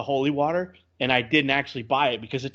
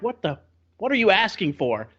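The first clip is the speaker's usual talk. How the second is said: higher-pitched mock bafflement; baffled; 6 semitones higher than usual. Player to garbled game character, baffled. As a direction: act out total confusion at the request.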